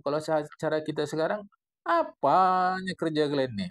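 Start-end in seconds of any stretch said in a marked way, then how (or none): 1.9-3.7 Medan style. Retold or imitated. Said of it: "itu cara bahasa Medan lah".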